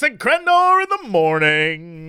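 grand theatrical welcome; stage play opener. Acted. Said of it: "That sounded like we were gonna open to a play".

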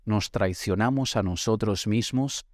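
ordinary talk

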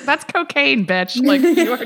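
loud, laughing mock retort; exaggerated outrage at a celebrity; mock callout. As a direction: call her out, half laughing.

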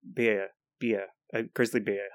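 "bear" and "beer" both said as a short Kiwi vowel; New Zealand accent. Shown as a demonstration. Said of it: "I can't say it in a New Zealand accent".

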